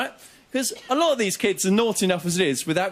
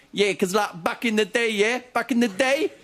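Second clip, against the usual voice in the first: put-on high, rising teen slang; lightly voiced street kid; 4 semitones higher than usual. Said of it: "One kid turned to another and went".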